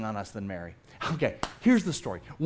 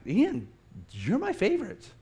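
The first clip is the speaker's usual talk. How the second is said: higher, tender doting voice; 4 semitones higher than usual. Retold or imitated. Dad cooing to his youngest son, tender. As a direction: coo it to the little one.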